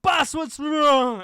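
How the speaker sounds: high, slow, loud dim troll; high troll yelp. Acted. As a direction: squeal it out like a confused troll. Troll voiced by GM.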